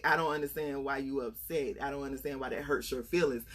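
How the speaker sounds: lightly imitated husband, low and soft; mild, low-key puzzlement, voiced softly; unbothered husband.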